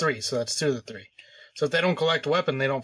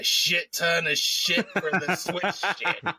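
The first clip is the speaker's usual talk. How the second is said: laughing; 3 semitones higher, slower than usual. Real, not acted. Laughing through joke.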